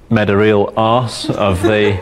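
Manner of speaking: laughing. Real, not acted. Explaining wiring mess, laughing.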